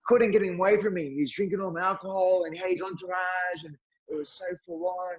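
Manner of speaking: a fighter moaning about a celebrity pest; bragging George. Retold or imitated.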